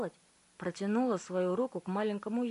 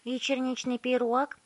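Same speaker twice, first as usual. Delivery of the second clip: put-on high, bewildered child voice; Violetta, high and puzzled; puzzled girl; 6 semitones higher, 5 dB louder than usual. A narrator's reading. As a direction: ask it as a baffled girl. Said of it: "недоумённо спросила Виолетта".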